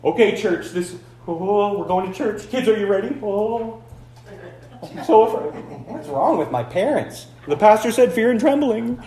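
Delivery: light mock fear of church; a touch of a scared parent and kids; mock frightened family. Family misreading fear and trembling, mock frightened. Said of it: "He doesn't mean".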